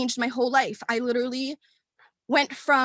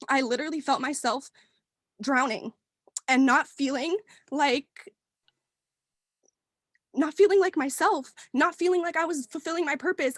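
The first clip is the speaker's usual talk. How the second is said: on the verge of tears; 2 semitones higher than usual. Real, not acted. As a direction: voice catching, holding back tears. Tearing up while telling story.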